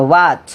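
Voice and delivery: "what" started on a pushed w, like "wat". Shown as a demonstration. Teacher gives an example to students, pushed w without h. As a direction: push into "what" with rounded lips, no h. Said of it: "স্বরে অতে ধাক্কা দিয়ে হবে".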